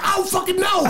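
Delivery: high mock shout, laughing; high, laughing mock yell; panicked shout. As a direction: yell it like you are still spooked. Retold panicked reply.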